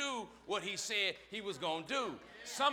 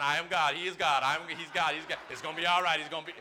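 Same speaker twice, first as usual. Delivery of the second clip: loud but lower pleading to God; walk it off, talking to God; muttering self-talk; 3 semitones lower, 6 dB louder than usual. Pretend. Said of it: "I gotta walk around when stuff go down".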